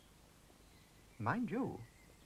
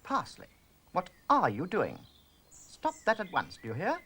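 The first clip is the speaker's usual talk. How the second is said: raised scolding voice; sharp scolding; 4 semitones higher than usual. Acted. Rosemary scolds Parsley to stop it at once, raised and sharp. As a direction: tell him off firmly.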